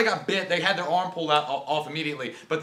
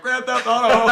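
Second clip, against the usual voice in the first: mock excited shout; 7 semitones higher, 8 dB louder, slower than usual. Excited video game comparison, laughing.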